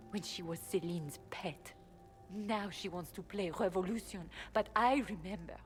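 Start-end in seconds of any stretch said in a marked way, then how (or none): 0.1-4.3 whispered. Acted. Bitter aside about Briala.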